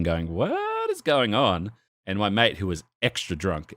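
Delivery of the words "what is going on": drawn-out, slightly raised bafflement; retold baffled deflecting. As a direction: stretch it out slowly as a retold deflection. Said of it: "dead batting 'em".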